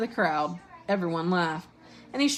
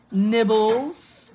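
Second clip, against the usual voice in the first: sing-out mock-sweet offer, higher and louder; raised, coaxing sweet call; sweetly; 4 semitones higher, 5 dB louder than usual. A narrator's reading. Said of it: "he said sweetly".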